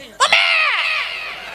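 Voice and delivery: put-on long high wail of a fallen child; child wailing for mommy. The fallen boy calls his mother in a long high wail. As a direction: stretch it out like a kid crying mommy. Child cries out after falling.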